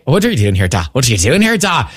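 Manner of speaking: mock Irish accent. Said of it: "my Irish accent".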